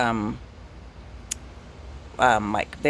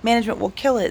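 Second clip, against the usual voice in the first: much higher, urgent don't-touch-it plea; pitched way up in alarm; alarmed warning; 9 semitones higher than usual. Retold or imitated. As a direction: yelp it out like a sudden panic. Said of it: "And I was like".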